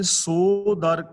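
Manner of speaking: slow, drawn-out scripture recital; slow verse recitation. Shown as a demonstration. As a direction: intone the couplet slowly and reverently. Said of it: "Kabir ਜੀ ਕਹਿੰਦੇ ਨੇ".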